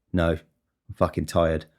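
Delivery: low, slow, tired answer; weary retold reply. Supervisor answers a coworker's greeting, wearily. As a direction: imitate a tired supervisor, dragging it out.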